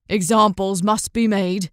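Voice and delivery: a hint of a hard merchant voice; cold fisherman. A narrator's reading. Fisherman refusing her plea, cold. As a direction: deliver the sentence coolly.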